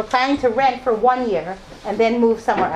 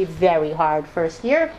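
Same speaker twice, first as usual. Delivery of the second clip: ordinary delivery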